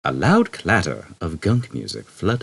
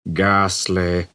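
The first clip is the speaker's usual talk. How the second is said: gloomy robot voice. Acted. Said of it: "continued Marvin".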